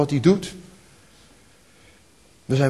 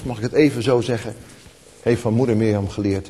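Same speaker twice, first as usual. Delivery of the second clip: ordinary delivery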